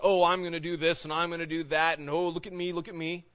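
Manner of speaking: lightly hammed-up show-off; mock boasting. Preacher mimicking someone showing off his plans, mock boasting. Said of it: "Don't be boasting about".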